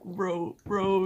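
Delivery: high-pitched imitation of giggly pleading; giggly friend. Imitating a friend giggling to himself on party chat, high and giggly. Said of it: "giggling to himself".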